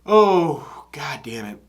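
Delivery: breathy under-breath whisper; whispered curse. Real, not acted. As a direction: mutter it under your breath, worried. Worried reaction to video.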